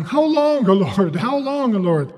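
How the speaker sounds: lightly acted lament; crying out to God. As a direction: plead upward like a weary believer. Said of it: "we feel like crying".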